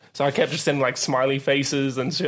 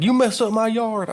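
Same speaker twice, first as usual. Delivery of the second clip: mock angry neighbour; 8 semitones higher than usual. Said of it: "He's like".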